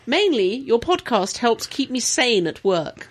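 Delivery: slow, measured mock posh reading; posh accent. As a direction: read it slowly in a posh English accent. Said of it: "Do it posh".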